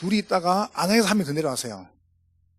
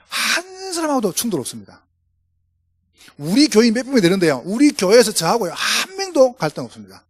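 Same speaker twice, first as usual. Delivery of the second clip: rising, punchy pulpit delivery, louder on key phrases; fervent preaching; 4 semitones higher, 4 dB louder than usual. Acted. Pastor urging the congregation to change, fervent preaching. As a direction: drive the point home to the flock.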